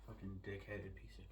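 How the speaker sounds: hissed swearing under breath; whispered cursing. Real, not acted. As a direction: whisper the insult.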